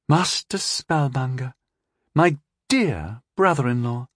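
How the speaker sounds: a cool scheming princess. Acted. Narrator voices young princess.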